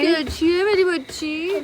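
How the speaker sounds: slow, drawn-out doting coo; fond cooing. Real, not acted. Sister asks Lakshmi how her baby is, cooing.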